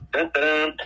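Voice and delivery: playful da-da-dum flourish; mock fanfare. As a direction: imitate a little fanfare before a reveal. Mock fanfare before naming film.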